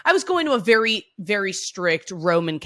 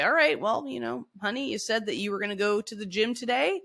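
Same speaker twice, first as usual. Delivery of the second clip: put-on gentle, softer coaxing to an inner child; nurturing parent; 4 semitones higher, 5 dB quieter than usual. Voicing a nurturing parent to herself, gentle and soft. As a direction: coax yourself like a kind parent. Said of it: "a nurturing parent to your inner self and say".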